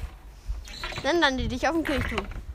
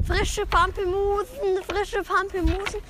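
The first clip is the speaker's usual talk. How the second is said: high, slow vendor's cry; market woman calling out; 7 semitones higher, slower than usual. Acted. Woman selling at the market, calling out. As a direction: draw it out in a sing-song street call. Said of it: "da rief eine Frau".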